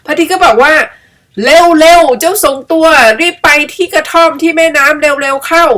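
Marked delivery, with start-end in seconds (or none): 1.1-5.6 high, louder, slow urging; the sun hurrying the two animals along; urgent sun. Acted.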